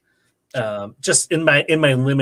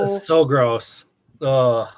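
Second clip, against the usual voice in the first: slow disgust; much slower than usual. Real, not acted. Reacting to a bad trade.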